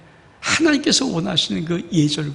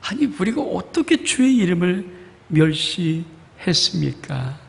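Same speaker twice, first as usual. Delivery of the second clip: slightly raised, innocent-sounding denial; feigning innocence; slower than usual. Retold or imitated. Israelites denying contempt to God, playing innocent. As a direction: play dumb, as if you never did it. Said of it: "이들이 시침이 뚝 떼고".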